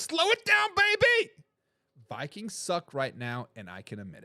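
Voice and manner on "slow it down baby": high, loud teasing call; playful high shout of baby. Retold or imitated. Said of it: "She says".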